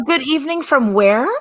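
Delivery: playful put-on English accent; pretend English accent. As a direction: echo it in a mock English accent. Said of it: "I just pretend to have one".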